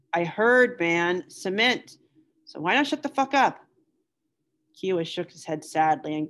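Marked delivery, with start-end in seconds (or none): 0.1-3.6 higher, louder, rising to a fed-up snap; irritated outburst. Acted. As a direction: cut him off, fed up with hearing it. Bowker snaps at talking Kiowa.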